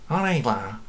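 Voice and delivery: casual Liverpool greeting; Scouse accent. Shown as a demonstration. Guide trying the accent for the camera, Scouse. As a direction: put on a Scouse street greeting. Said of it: "Can you do Scouse accent?".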